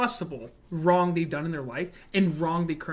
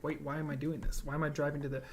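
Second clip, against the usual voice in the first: acted bewilderment speeding up into a rush; mock confusion; faster than usual. Imitating a hater following strange directions, mock confused and increasingly rushed. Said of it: "confused, and like".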